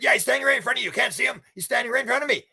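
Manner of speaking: high, strained voice of a scared man; anxious insistence. Retold or imitated. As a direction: plead that it's really there. Preacher insists the devil is there.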